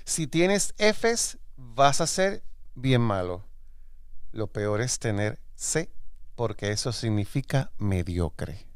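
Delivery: slow, deliberate reading with dramatic pauses; reading aloud verbatim. Acted. Host reads mother's school advice back to her, slow deliberate reading. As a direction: draw out each grade, savouring the verdict. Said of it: "estoy leyendo textual".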